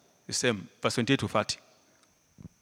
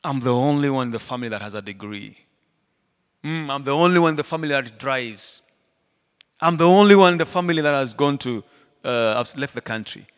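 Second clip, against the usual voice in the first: a touch of smug bragging, building louder; mock boasting; 7 dB louder than usual. Preacher imitating a proud person, mild mock boast. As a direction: show off each claim. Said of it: "Don't carry that attitude".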